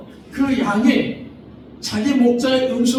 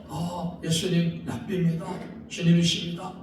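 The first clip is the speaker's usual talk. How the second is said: Mary's awed confession; 3 dB quieter than usual. Acted. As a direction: breathe it out in quiet awe. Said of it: "이렇게 마리아가 부르는 겁니다".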